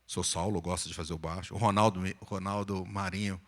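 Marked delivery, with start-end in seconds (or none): 0.1-1.6 much lower, showing off a bass voice; low bass register sample; bass voice demo. Shown as a demonstration. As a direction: drop down to a deep bass to demonstrate. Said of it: "uma voz um pouco mais grave".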